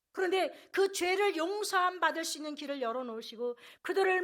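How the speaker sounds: loud, driving sermon delivery; full-voiced pulpit proclamation; impassioned preaching. Real, not acted. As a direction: preach it out with mounting force. Preacher builds to full force.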